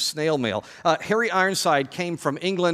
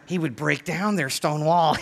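slow, lightly put-on scoffer's voice; slightly hammed-up mocker; Tobiah. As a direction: drag out the taunt in character. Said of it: "he spoke like that".

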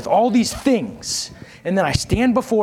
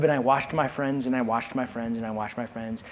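fading repetition; 5 semitones lower, 6 dB quieter than usual. Acted. Repeated, fading each time.

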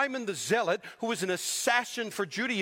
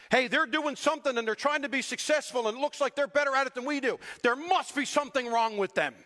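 mocking jealous whine; 5 semitones higher than usual. Mocking the jealous modern church.

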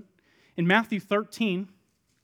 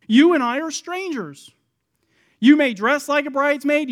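tag; 5 semitones higher, 7 dB louder than usual. Acted. Bridegroom denouncing the impostors.

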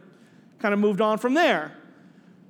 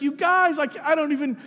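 higher-pitched, mildly choked-up retelling; overcome, tearful; 5 semitones higher than usual. Retold or imitated. Agnes overwhelmed by her surprise party, mildly tearful. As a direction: lightly imitate someone moved beyond words. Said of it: "and she wept".

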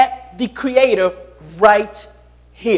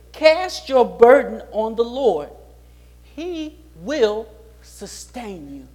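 slow and soft, fading away; tender reassurance; 4 dB quieter, slower than usual. Acted. Preacher quotes the psalmist to the congregation, slow and soft. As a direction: let the promise sink in gently.

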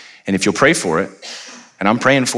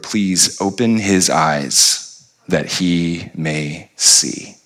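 hushed prayer; 4 semitones lower, much slower than usual. Acted. Elisha praying quietly.

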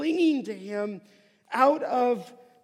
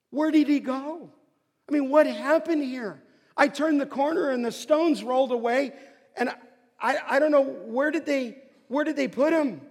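bewildered Mary; 4 semitones higher, 5 dB louder than usual. Pretend. Preacher voices Mary's confusion.

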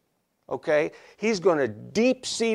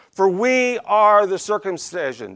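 louder, emphatic and self-assured; real attitude; 3 semitones higher, 5 dB louder than usual. Acted. Preacher reading Paul's retort to his opponents, with attitude. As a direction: declare it with attitude, weight on "we". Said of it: "there's some real attitude going on here".

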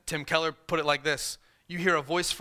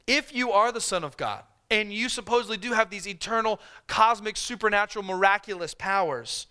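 higher, goading devil's challenge; mocking tempter; 4 semitones higher than usual. Preacher voicing Satan goading Jesus to make bread, higher and mocking. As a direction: needle him into proving it. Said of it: "Effectively saying".

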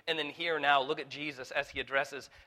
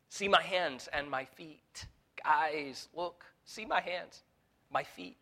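gentle entreaty; 2 semitones higher, slower than usual. Acted. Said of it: "Look at what he entreats of them".

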